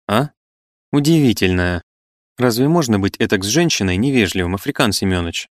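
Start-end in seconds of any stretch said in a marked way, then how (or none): none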